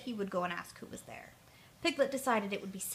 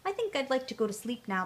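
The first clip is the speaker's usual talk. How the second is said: sleepy Pooh; 3 semitones higher, 3 dB louder than usual. Acted. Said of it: "feeling very tired".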